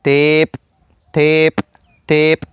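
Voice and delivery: «tep» with an ordinary T; «tep» repeated slowly; plain T in Maya. Shown as a demonstration. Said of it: "un ejemplo de alguna palabra". («tep» con t normal)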